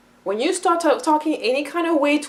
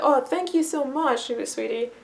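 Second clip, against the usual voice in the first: slow, affectionate thanks dropping softer at the end; warm appreciation; 4 dB quieter than usual. Retold or imitated. People thanking a child who served them, warmly appreciative. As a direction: gush gently to a helpful child. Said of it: "the appreciation that people will have".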